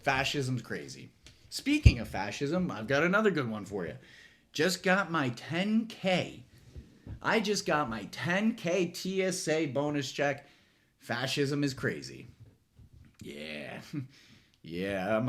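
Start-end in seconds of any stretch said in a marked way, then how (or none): 4.5-10.5 smug bragging voice. Pretend. Mocking a TSA agent's brag.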